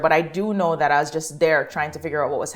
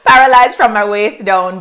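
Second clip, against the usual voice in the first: laughing through the words; 3 semitones higher, 7 dB louder than usual. Real, not acted. New mother laughing to her friend about her birth story. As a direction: laugh it out while telling.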